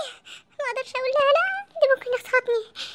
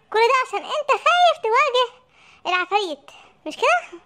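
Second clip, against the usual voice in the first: laughing taunt; 2 semitones higher than usual. Acted. Mocking the scared sheikh.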